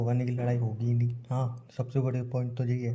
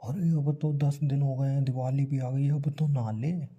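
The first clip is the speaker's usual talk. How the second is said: imitating scolding mom; 3 semitones higher than usual. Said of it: "mummy चीखने की आवाज़ आई".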